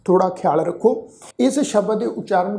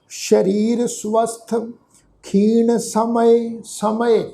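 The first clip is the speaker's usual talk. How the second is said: very slow, held vowels; scripture recitation; much slower than usual. Shown as a demonstration. Teacher puts explained words into the verse, slow recitation. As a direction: recite in slow, measured phrases. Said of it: "ਪਾਠ ਉਚਾਰਨ ਕਰਾਂਗੇ".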